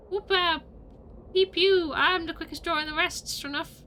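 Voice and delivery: whooping western gunslinger; cowboy gunslinger. Acted. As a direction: brag like a quick-draw cowpoke. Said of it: "Gabby does not talk like that".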